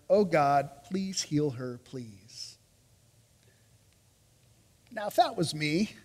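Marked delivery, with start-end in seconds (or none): 0.1-2.6 a brother begging God for his sister, fading to almost nothing; fading plea. Acted. Moses begging God to heal his sister, fading plea. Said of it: "And Moses cried to the Lord".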